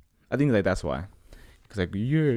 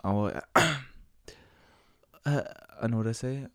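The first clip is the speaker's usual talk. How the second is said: faking a dad voice; 5 semitones higher, much slower than usual. Retold or imitated. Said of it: "So I was like".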